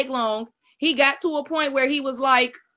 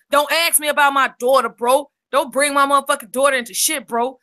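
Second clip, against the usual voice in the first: louder, heated warning; angry warning; 3 dB louder than usual. Real, not acted. Rico snapping at the host over his daughter, heated. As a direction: back them off hard.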